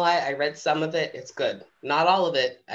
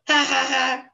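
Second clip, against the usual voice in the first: mock chuckle; 6 semitones higher, 3 dB louder than usual. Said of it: "The other lions all laughed and chuckled".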